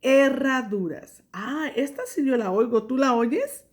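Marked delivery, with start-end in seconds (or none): 0.0-1.2 "Herraduras" said slowly with a trilled rr; teacher repeats "Herraduras" slowly; clear model word. Shown as a demonstration. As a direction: repeat it for the class. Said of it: "se llaman herraduras".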